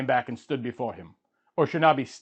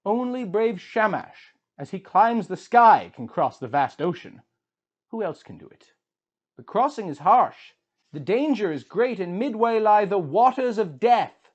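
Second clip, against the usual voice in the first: Shiduri the tavern keeper; 6 semitones higher than usual. A narrator's reading. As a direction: advise the grieving king to enjoy life.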